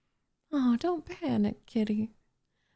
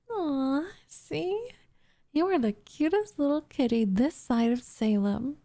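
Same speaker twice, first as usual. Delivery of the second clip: put-on cooing baby talk; 5 semitones higher than usual. Cooing over cute cat.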